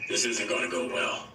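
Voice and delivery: low, muttered aside in imitation; Harrison Ford. Harrison to his co-star in the hallway, low imitated aside. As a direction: drop the voice for a dry co-star. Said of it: "Harrison goes".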